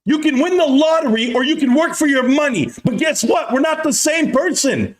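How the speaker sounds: ramp up into a furious rant; escalating comedy rant. Real, not acted. Rant escalating against Wall Street.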